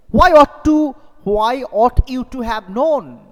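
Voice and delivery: outraged husband demanding why; annoyed George. Shown as a demonstration. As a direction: throw the question back in disbelief. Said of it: "George, staring at annoyed".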